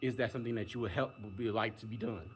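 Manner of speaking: helpful agent demo. Shown as a demonstration. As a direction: show the caring way to greet an angry caller. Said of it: "I would phrase just like that".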